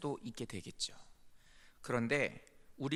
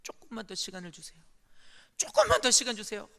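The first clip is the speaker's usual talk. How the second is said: tearful prayer. Retold or imitated. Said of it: "울면서 기도가 되더라고요".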